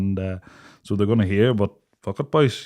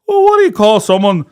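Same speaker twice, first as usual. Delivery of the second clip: acted exasperation; 8 semitones higher, 7 dB louder than usual. Acted exasperated comeback to mate.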